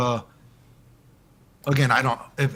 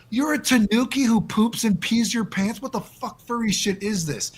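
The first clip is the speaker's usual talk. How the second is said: mock disbelief; 8 semitones higher than usual. To the furry contestant, high mocking disbelief. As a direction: ham up the disbelief like it's absurd.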